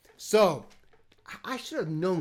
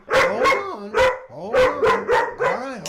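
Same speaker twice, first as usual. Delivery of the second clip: much higher, louder hold on; high excited pet call; excited coaxing; 11 dB louder, slower than usual. Real, not acted. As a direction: coax the dog in high and eager. Coaxing dog toward camera.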